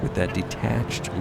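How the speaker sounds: usual speaking voice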